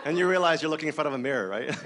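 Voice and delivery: talking through real laughter; laughing. Real, not acted. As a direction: let the laugh spill into the words. Laughing at own anecdote.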